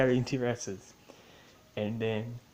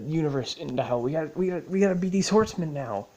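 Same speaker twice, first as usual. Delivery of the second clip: mock urgency; 5 semitones higher than usual. Retelling ever more tangled quest goals.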